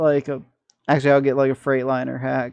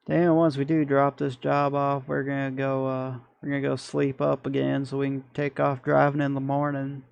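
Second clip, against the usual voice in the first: hammed-up Southern accent. Gamer to his truck crew, mock Southern accent. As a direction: play the good old Southern trucker boy. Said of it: "Got no idea why I'm talking like this".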